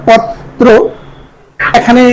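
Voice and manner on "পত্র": পত্র slow, "pot - tro"; doubled t. Shown as a demonstration. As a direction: split পত্র at the t. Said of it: "উচ্চারণ করি আমরা". (পত্র ধীরে "পত্-ত্রো")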